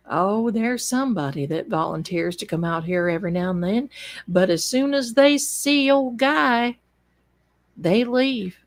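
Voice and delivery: put-on small-town officer's country accent; Notso's accent. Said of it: "in his accent".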